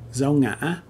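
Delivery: dao ngã with a catch in rising ngã; broken tone. Shown as a demonstration. Teacher naming the tilde mark, broken tone. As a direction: break ngã mid-vowel, then lift it. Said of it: "The broken tone".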